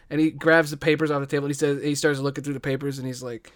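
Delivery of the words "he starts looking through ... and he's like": ordinary talk, nothing marked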